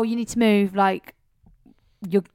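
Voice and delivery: mock-urgent warning to the driver; retold telling-off. Retold row with bus driver.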